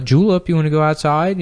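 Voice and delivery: owner's cheerful question to the dog, lightly voiced; owner calling the dog. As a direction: ask the dog lightly, voice lifted. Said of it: "they would say to the dog".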